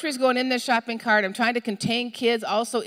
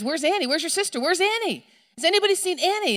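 high urgent questions piling up; acting a parent's rising alarm; panicked searching; 8 semitones higher than usual. Mother asks everyone about missing Annie, acted panic.

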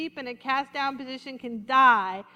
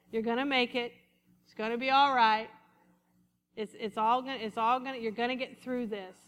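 reassuring tone; 4 semitones lower than usual. Retold or imitated. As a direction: talk a fallen sheep back up gently. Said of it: "what do you think Jesus would say?".

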